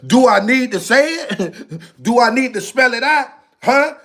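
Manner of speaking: chuckling through the questions; amused laughing. Real, not acted. Streamer teasing viewers after a censored swear, laughing. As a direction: ask it teasingly, with real laughs breaking in.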